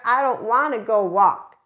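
mock toddler whine about going for a walk; whiny two-year-old. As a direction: sulk it like a toddler refusing. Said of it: "who does that sound like? ... a two-year-old".

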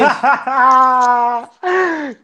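hearty burst of laughter; big real laugh; loud laugh. Real, not acted. Host laughs hard.

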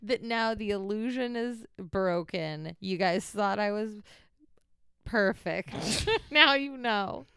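talking with whitening strips on. Real, not acted. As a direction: teeth strips in, words a bit mushy. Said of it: "I have teeth whitening strips on".

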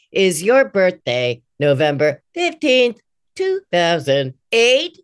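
slow, evenly spaced robot prompt. Shown as a demonstration. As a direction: read it like a stiff robot. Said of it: "it doesn't sound like a robot voice".

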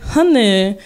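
put-on Greek accent. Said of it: "that's my Greek".

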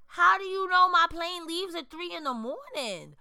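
high, loud, indignant demand; indignant confrontation. Acted. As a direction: confront an overstepping fan in disbelief. Confronting fans who follow her to gates.

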